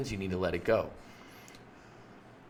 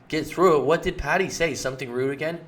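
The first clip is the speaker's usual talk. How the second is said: anxious prying; 5 semitones higher than usual. Acted. Partner pressing anxiously after short reply.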